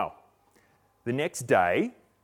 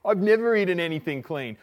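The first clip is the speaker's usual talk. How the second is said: acted refusal; 7 semitones higher, 6 dB louder than usual. Peter voiced refusing the food.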